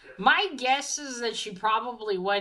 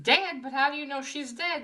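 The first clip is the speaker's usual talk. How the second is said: mock incredulous, pitched higher; lightly acted, high-pitched disbelief; retold disbelief; 6 semitones higher than usual. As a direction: question it as the stunned father. Father told his wife is dead.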